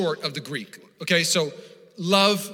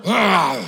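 snarl; 6 dB louder than usual. Shown as a demonstration. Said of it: "It even says to murmur".

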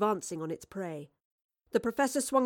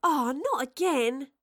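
high, slow, drawn-out groaning; exasperated groan; 6 semitones higher, 4 dB louder, slower than usual. A narrator's reading. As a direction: groan it like a fed-up girl. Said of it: "Astrid groaned".

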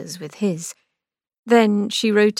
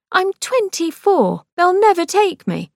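Angelica, retorting; 10 semitones higher, 3 dB louder than usual. A narrator's reading. Sister retorting to brother's threat, indignant. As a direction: fire back at him.

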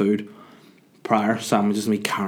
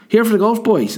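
mock taxi driver; 12 semitones higher, 6 dB louder than usual. Taxi driver voiced in story.

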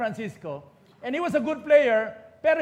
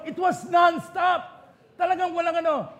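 excited; 6 semitones higher, 3 dB louder than usual. Real, not acted. Excited retelling of comeback.

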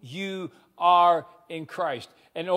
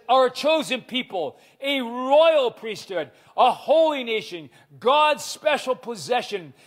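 fervent preaching; 3 semitones higher than usual. Real, not acted. Preaching scripture with rising fervor.

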